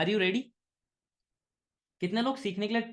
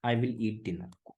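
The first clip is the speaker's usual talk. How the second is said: slow, sure I will; 9 semitones lower, 4 dB quieter, much slower than usual. Shown as a demonstration. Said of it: "genuine करते हो ना".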